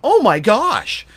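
slow, drawn-out mock horror; retold dismay. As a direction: replay the shock at the scale, dragging it out. Retold moment at the scale.

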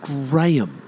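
GRAHAM as GRAY-um; proper pronunciation. Shown as a demonstration. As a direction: draw out the AY in Graham. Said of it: "English say that one properly".

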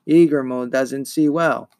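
eerie swarm-of-hornets creature voice; buzzing monster voice. Acted. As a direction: let the monster's buzz shape the words slowly. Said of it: "buzzed the many voices".

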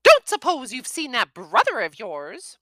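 high, loud mother's snap; mother snaps about missing son, high; snapping mum. A narrator's reading. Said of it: "she snapped".

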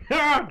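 mocking laugh. Mocking Jameson.

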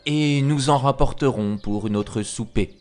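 lightly voiced luring wolf; a hint of coaxing wolf; wily wolf. Wolf inviting the pig to fetch turnips, mildly coaxing.

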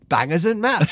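a bad English accent, yelled for laughs; mock English accent. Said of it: "doing an English accent".

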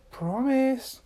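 high, firm single word; insistent demand. A narrator's reading. Little Miss Magic demands Mister Tickle's word, high insistent demand.

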